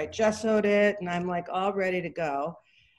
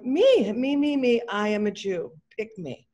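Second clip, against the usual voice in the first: eager volunteering; 3 semitones higher, 4 dB louder than usual. Retold or imitated. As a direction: shout it like a kid desperate to be chosen. Eager volunteer raising hand.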